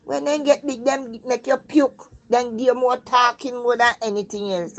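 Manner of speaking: half-voiced wise elder giving advice; quoting Sissy. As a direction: lightly voice her knowing warning. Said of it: "And she say".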